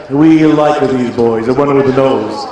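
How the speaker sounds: low, slow doting family voice; Italian relative. Retold or imitated. His family fussing over a band, low slow relative. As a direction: gush about the boys. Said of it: "They were just like".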